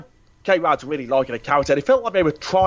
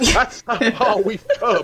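much higher, slow, laughing through the words; 9 semitones higher, slower than usual. Real, not acted. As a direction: laugh it out in disbelief. Joking about the film, laughing.

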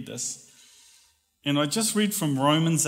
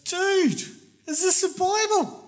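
higher, louder teasing guy voice; hammed-up mocking buddy, higher and louder; 4 dB louder than usual. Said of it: "and he goes".

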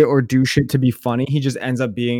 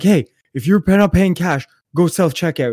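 quoted cashier; 4 semitones higher than usual. Retold or imitated. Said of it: "He's like".

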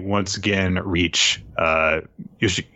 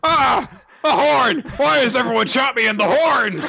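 much higher and louder, a cartoon cry of pain; mock demon wail; 4 dB louder than usual. The demon complaining about losing a horn, mock pained wail. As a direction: howl like a demon who lost a horn.

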